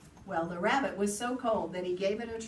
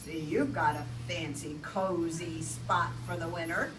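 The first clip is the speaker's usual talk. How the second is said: sly fox; 3 dB louder than usual. Acted. Fox demands room.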